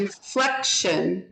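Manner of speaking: INFLECTION slowly, stress on FLEC; teacher's slow model of INFLECTION; accented syllable demo. Shown as a demonstration. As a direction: stretch INFLECTION and lean on its second syllable. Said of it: "Which syllable?".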